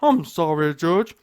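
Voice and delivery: loud, hammed-up courtroom begging; mock a tearful plea for mercy; mock crying. Mocking convicted gang members pleading to the judge, mock crying. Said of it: "they're all crying".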